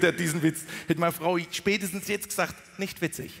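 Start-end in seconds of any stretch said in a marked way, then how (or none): 2.8-3.3 understated, precise Standard German put-down; dry Hochdeutsch verdict, dropping at the end; wife's Standard German. Acted. Wife judging his joke, dry precise Standard German. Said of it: "Meine Frau spricht Hochdeutsch".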